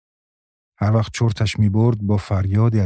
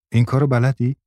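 put-on strained, higher child's voice; a touch of hoarseness, pitched up; husky voice; 4 semitones higher than usual. A narrator's reading. Girl upside down on her head asks Maryam, husky. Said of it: "با صدای خشداری گفت".

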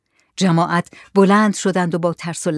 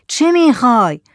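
raised, louder challenge; shouted question; 6 semitones higher, 5 dB louder than usual. Acted. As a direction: shout it at the stranger. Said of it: "داد زد". (با داد پرسیدن)

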